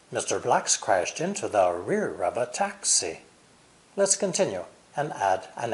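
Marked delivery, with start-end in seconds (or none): 0.1-3.2 regular beats on "Blacks", "into", "rear", "taxi"; stressed content words. Shown as a demonstration. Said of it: "The final result sounds like this".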